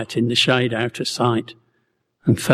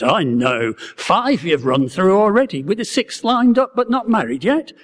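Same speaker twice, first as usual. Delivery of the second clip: put-on broad Galilean accent; 6 semitones higher than usual. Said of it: "said in his broad accent".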